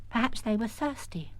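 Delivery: put-on whispered child's guess; small whisper. Arabelle whispering to Peter Stone. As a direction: offer it in a tiny whisper.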